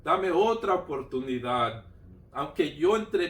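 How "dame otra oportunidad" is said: slow, drawn-out plea with some force; retold cry to God. Man retells begging God for another chance, crying out. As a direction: call up to heaven, stretching the words. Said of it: "le gritaba".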